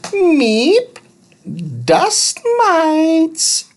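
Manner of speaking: high beeping robot voice, broken grammar; robot Thud. A narrator's reading. Little robot explaining follicles, high beep first. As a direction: beep then explain simply.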